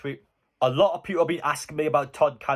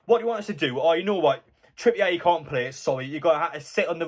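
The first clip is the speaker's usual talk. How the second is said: higher-pitched sarcastic reply to a complaint; mock exasperation; 3 semitones higher than usual. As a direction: play exasperated, mocking the moaner.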